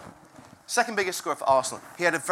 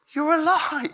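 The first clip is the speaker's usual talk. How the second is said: joyful disbelief; 10 semitones higher, 5 dB louder, slower than usual. Retold or imitated. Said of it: "incredible sense of joy".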